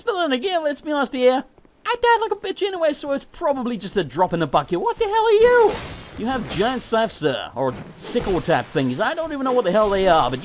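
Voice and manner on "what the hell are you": startled outburst. Real, not acted. Meets a strange enemy.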